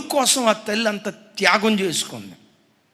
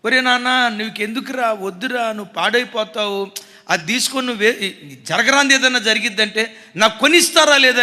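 arguing son; 5 dB louder than usual. Retold or imitated. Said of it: "అని వాదులాడాడు".

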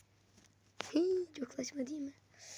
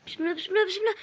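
1 tense bismillah; 5 semitones higher, 5 dB louder, much faster than usual. Real, not acted. Tense moment, praying while pressing.

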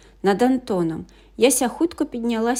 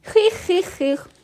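high mischievous dragon voice; a sly giggling dragonling plotting; little dragon; 5 semitones higher than usual. A narrator's reading. Orange dragonling asking its friends, high and mischievous. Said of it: "запитало оранжеве драконеня".

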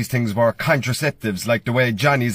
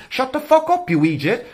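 high, sudden mock outburst at the phone; 10 semitones higher than usual. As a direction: snap at Siri in fake fury. Snapping at Siri.

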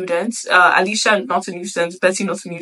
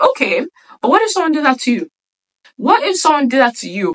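livid; 6 semitones higher, faster than usual. Retold or imitated. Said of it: "she's livid".

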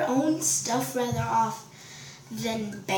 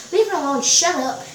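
raised, louder retold order; mock scolding; 3 semitones higher, 5 dB louder, faster than usual. Boy tells her off, mock scolding. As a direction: imitate a boy butting in. Boy's order quoted once more.

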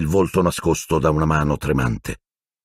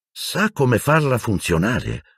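higher, slow wary question; suspicious Harry; 7 semitones higher, slower than usual. A narrator's reading. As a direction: ask it slowly, not trusting him. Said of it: "chiese Harry sospettoso". (Harry sospettoso, lento e diffidente)

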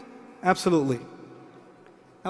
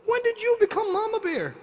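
much higher, incredulous "Excuse me?"; mock indignant; 10 semitones higher than usual. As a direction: play the offended dad, pitch way up. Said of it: "I look at my girl and go".

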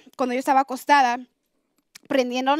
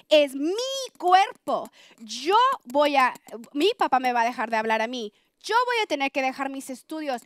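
indignant outburst. Retold or imitated. Woman retelling her reply to boyfriend about her body, indignant. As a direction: lash back like a roused lioness, without shouting. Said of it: "ahí es cuando salió la leona y me dio un coraje".

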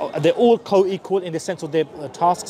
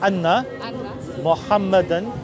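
slow Arabic, each word set apart by long pauses; very slow recitation; much slower than usual. Shown as a demonstration. Preacher leads a new convert through the shahada, very slow. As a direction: recite word by word, very slowly, so he can follow. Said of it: "I'm gonna do it real, real slow".

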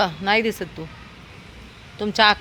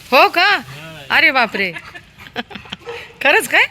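mock surprise; 5 semitones higher, 3 dB louder than usual. Real, not acted. Reacting to the dog's news.

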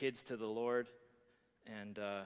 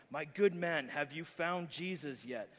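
louder, slower preacher demand; strong tone; 4 semitones higher, 5 dB louder than usual. Acted. Frustrated preacher demands an answer from the drunk, strong tone. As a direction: press him hard like a fed-up preacher. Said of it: "says in a strong tone".

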